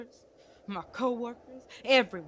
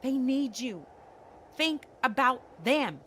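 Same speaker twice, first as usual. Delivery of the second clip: slow, hammered words, getting louder; emphatic urging; 4 semitones higher, 4 dB louder, slower than usual. Acted. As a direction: drive each word home slowly. Acted urging of grieving father.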